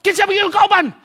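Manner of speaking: spring the question to startle; teacher startling. Retold or imitated. Teacher interrogating. (kusog nga pangutana sa maestro)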